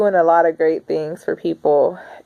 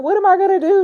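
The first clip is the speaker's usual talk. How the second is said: mock helpless self; 14 semitones higher, faster than usual. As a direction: play your helpless self asking for help. Imitating herself asking sister.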